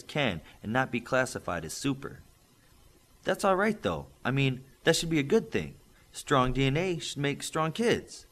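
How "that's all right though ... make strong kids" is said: hopeful. Acted. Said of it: "Missus Pringle said hopefully".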